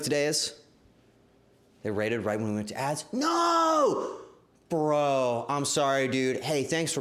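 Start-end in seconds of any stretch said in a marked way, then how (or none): 3.1-4.2 high loud cry of dismay. Real, not acted. Streamer realising the raid hit during ads, dismayed shout. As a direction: cry out in mock despair.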